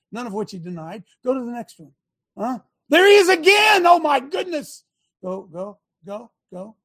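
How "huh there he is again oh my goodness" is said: higher and louder, mock astonishment at each photo; mock surprise. Real, not acted. Host mocking the court's photos for the viewers, in mock surprise. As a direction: play it up like a sarcastic gotcha reveal.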